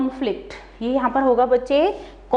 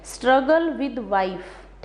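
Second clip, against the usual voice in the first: slow mnemonic; much slower than usual. Shown as a demonstration. Teacher slowly spelling out the memory trick for students. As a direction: drill the memory phrase into them. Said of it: "तो कैसे relate करेंगे".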